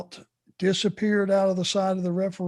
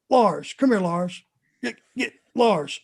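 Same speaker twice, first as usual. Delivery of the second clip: a hint of a gruff boss calling out; imitating Bill Watts. Bill Watts calls him out at team meeting, mild bark. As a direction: summon him across the room, lightly voiced. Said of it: "he goes".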